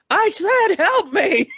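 sudden high, forceful demand; demanding repeat. Retold or imitated. Tied-up Jessica losing patience, commanding repeat. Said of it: "And then she goes".

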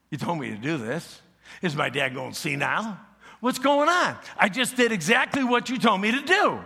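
indignant protest. Retold or imitated. Esau's confused protest.

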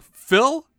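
shrill-high, loud, delighted disbelief; high gasping disbelief. Pretend. Milan crowd hearing the duke's name, squealing disbelief. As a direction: squeal it like a thrilled townsfolk.

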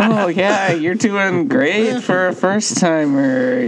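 slow, drawn-out mock praise; imitating a condescending pat on the head; mocking patronizing. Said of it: "the way Tanner said that made it sound so patronizing".

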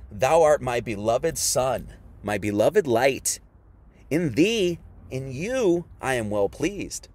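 low, slow, solemn divine pronouncement; voice of God. Acted. God addressing his beloved Son, low and solemn. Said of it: "And this voice said".

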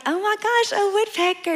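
high, excited gasp at a bird; mock excited. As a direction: squeal it like a thrilled newbie. Retelling excitement at hearing woodpecker.

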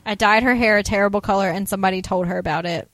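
fast, loud mock indignation; imitated outrage, pushed out quickly; indignant retelling. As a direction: rattle it off, acting affronted. Acted indignant account of being fired.

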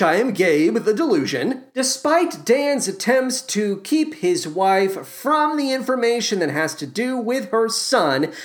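ordinary delivery

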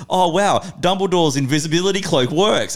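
teasing gasp of wonder; mock amazed. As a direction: play up fake amazement. Friend trolling, quoted.

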